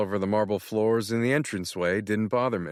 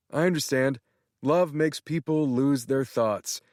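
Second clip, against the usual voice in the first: much higher, gushing excited friend; excited Tanner; 5 semitones higher than usual. Acted. Tanner thrilled, congratulating Matt on being in love. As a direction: gush as if he just found out.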